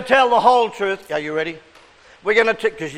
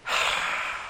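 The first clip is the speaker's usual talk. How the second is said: demo sigh; 11 dB quieter than usual. Shown as a demonstration. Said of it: "Take a deep breath".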